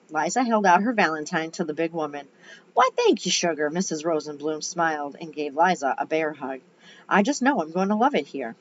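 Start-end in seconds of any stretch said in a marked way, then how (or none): 2.7-3.7 put-on gushing southern lady accent. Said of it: "I gave her a southern accent". 7.1-8.6 put-on light southern lady accent; sweet southern voice. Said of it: "I gave her a southern accent".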